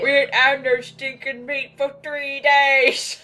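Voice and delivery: loud, high, slow mock orc bellow; angry orc voice. Friend mocking movie orcs, angry orc bellow. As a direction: growl it like a cartoon orc. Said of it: "the angry, like".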